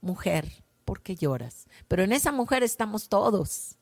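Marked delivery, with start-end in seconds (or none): 0.0-1.7 soft, tender question to a weeping woman; Jesus tenderly asking the crying woman why she weeps. Acted. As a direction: ask it with gentle delicacy, softer. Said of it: "Él tiene esa ternura, esa delicadeza".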